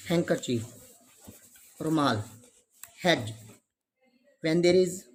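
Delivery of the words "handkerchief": "Handkerchief" as hang-ker-chief, no D; silent D. Shown as a demonstration. Teacher repeats the rule's example, handkerchief with silent D. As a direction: drop the D in "Handkerchief". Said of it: "D is always silent".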